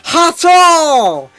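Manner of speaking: high, loud, hammed-up Japanese accent; stereotype Japanese accent. Reading the dojo master's lines in a mock Japanese accent. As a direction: bark it like a caricatured Japanese karate master. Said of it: "racist Japanese accent".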